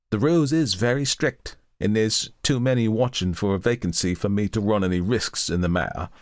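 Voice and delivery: a lightly voiced old charwoman, dismissive; scornful charwoman. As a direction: scoff at the fears, common and sure. Charwoman declines politely.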